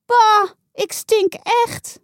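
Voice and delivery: high, slow, loud yuck; disgusted. A narrator's reading. Saar sniffs her vinegar hair, slow and disgusted. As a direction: drag it out in disgust.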